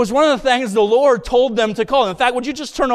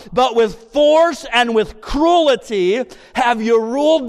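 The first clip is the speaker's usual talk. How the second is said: preaching scripture. Acted. Reads Ezekiel with preaching force.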